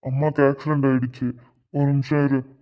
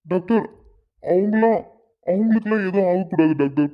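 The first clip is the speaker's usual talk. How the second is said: shocked disbelief; 3 semitones higher than usual. Acted. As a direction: pitch rising higher in frantic denial. Hears her mother has died. (அதிர்ச்சியில் நம்ப முடியாமல் கெஞ்சுதல்)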